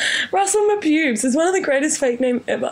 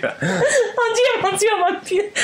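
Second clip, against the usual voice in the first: mock French accent; 5 semitones higher, slower than usual. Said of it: "French isn't a bad go-to".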